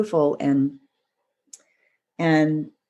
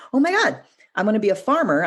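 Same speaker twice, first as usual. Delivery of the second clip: higher, quicker burst of excitement; excited young farmer; 6 semitones higher, faster than usual. Acted. The kid finds a little apple tree, excited. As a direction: act out a kid's eager discovery.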